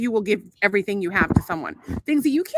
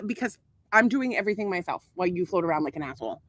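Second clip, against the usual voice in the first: softer, bitter deadpan repeat of the jab; sarcastic repeat; 3 semitones lower, 4 dB quieter than usual. Real, not acted. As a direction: throw the line back coldly, still sulking. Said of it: "I'm not done being mad yet".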